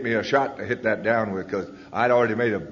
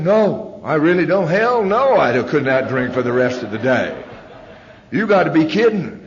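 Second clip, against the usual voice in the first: much higher and louder, protesting hard; indignant refusal; 5 semitones higher, 6 dB louder than usual. Retold or imitated. Told not to drink all day, loud indignant protest. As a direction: push back hard, disbelieving the request.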